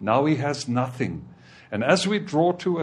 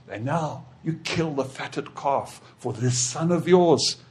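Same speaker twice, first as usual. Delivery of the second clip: resentful complaint; 3 semitones higher, 5 dB louder than usual. Acted. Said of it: "He says".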